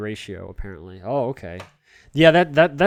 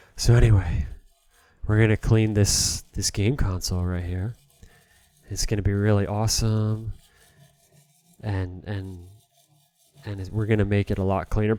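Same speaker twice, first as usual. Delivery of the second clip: awful, clumsy mock asmr delivery. Host cleaning a game console in a parody video, doing awful mock asmr. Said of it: "the host's Awful A S M R".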